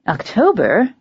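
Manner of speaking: rising, startled question; surprised. Acted. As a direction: caught off guard at the door. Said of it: "sounding as surprised as she looked".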